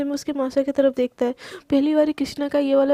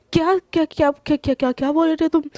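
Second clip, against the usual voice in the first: shocked stammer; 2 semitones higher, 4 dB louder than usual. Retold or imitated. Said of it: "एकदम shock हो के".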